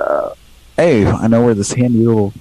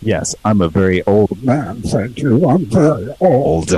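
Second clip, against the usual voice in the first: put-on filtered old man voice; wobbly elderly voice; 2 semitones lower than usual. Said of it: "Wow, that's really good".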